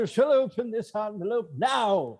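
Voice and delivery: laughing grandiose stage line; hammy stage actor. Acted. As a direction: ham it up like a melodrama actor. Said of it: "Overacting, not a thing".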